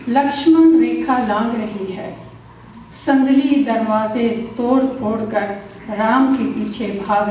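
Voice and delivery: measured recital with long dramatic pauses and repeated lines; poem recitation. Acted. Poet reciting कहाँ हो मेरे Ram at a temple, dramatic recital. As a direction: recite it like a stage poet, lingering on each repetition.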